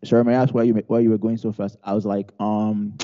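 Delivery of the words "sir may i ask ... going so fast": lightly imitated southern cop; a hint of southern accent; attempted southern accent. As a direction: try a polite southern officer's accent. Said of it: "He had this southern accent".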